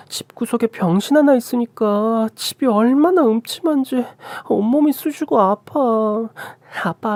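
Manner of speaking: high-pitched pampered moaning; spoiled sister-in-law, whining. Acted. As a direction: wheedle dad in a high little-princess voice. Sister-in-law whines to father.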